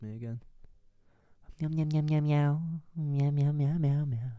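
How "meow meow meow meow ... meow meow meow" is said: loud playful meowing; nervous cat voice. Pretend. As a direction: meow like a cat into the mic. Mic test meowing.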